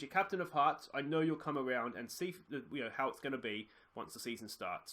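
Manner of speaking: hushed pretend call, manager placating his striker; mock phone call to a player. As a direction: soothe an unhappy star player down the line.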